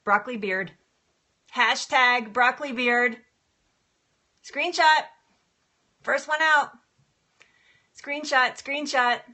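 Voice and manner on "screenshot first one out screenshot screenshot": excited call-out. Real, not acted. Calling out to viewers urgently.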